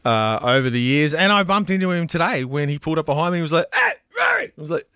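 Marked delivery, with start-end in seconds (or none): 3.7-4.5 high-pitched mock greeting; excited greeting. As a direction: imitate a friend calling out in surprise. Retelling a shouted street greeting.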